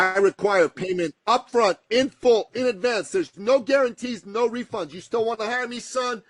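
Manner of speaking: imitating a tough coach's demands; laying down terms. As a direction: rattle off the conditions emphatically. Retold mentor laying down terms.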